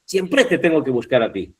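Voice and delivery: example sentence with "Siempre" stressed on PRE; siem-PRE in a recited line; wrong final stress. Shown as a demonstration. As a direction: misplace the stress of "Siempre" onto its end. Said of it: "No es siempre".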